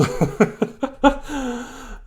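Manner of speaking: high laugh trailing down; falling giggle. Real, not acted. Laughing at her own fumbled intro, a giggle that trails off. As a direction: let the giggle fade out.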